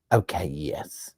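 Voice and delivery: slow whisper into the phone; whispered aside. Retold or imitated. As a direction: hush it like a busy clerk. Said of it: "she'd be like".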